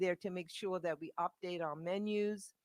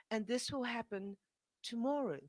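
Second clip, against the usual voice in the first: imitating a gentle caller, softer and higher; lightly voiced gentle Renee Brown, softer and higher; 5 semitones higher, 4 dB quieter than usual. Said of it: "from a very gentle, uh, lovely Renee Brown".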